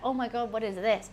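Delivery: gasping delight at a hidden onion; mock surprise. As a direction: play the amazed taster, rising loud. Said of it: "you'll be like".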